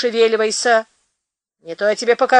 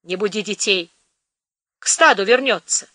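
sympathetic. Acted. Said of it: "участливо положил ей на плечо руку".

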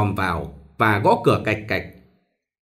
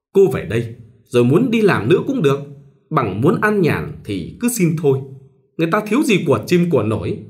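higher, pushy matchmaker voice; meddling go-between; 4 semitones higher than usual. Acted. Go-between pressing a reluctant bride, lightly pushy. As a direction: coax her like a busybody go-between. Tài praising the suitor's family.

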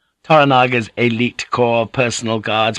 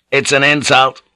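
deliberate; 6 semitones higher, 5 dB louder than usual. A narrator's reading. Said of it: "Yabu said deliberately".

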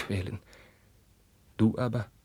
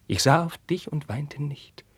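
higher voiced cry; higher, voiced outburst; raised voice; 6 semitones higher than usual. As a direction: break out of the whisper. Carlos repeats his refrain.

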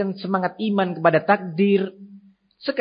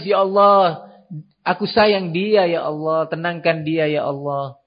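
pleading prayer. Acted. Parent praying over a crying child, loving plea. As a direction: plead gently with God. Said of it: "Mungkin dia dengan berdoa".

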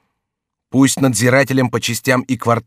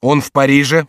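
shouting; 3 semitones higher, 5 dB louder than usual. Acted. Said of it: "вскричали несколько голосов".

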